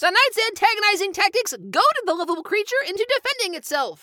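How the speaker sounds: reading a newspaper article aloud; formal news report delivery. Acted.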